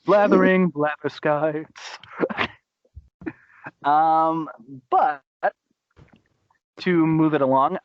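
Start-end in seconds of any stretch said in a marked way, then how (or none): 0.0-2.0 slow, drawn-out hero catchphrase; Gizmo Duck catchphrase. Retold or imitated. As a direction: ham up the catchphrase.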